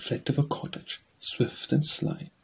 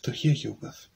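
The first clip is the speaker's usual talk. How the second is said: the wolf's own voice slipping through; echoing wolf reply. Acted. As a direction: let the beast show under the disguise. Wolf repeats, voice shifted.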